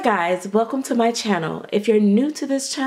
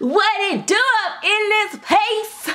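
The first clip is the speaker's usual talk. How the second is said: louder, raised, very high-pitched voice; 10 semitones higher than usual. Greeting viewers again after telling herself to say it louder: louder. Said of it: "say it louder".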